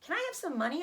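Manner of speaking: put-on child's plea. Fern begging again.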